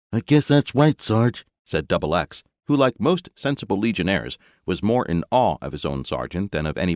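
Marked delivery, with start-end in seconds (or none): 0.1-1.4 higher, louder eager trooper voice; young legionnaire. A narrator's reading. Double X boasting to his sergeant, high and eager. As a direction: brag like a keen young grunt.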